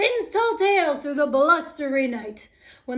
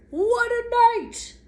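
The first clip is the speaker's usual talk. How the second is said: twittering bird voice; 4 semitones higher, 3 dB louder than usual. Acted. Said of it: "twittles wren".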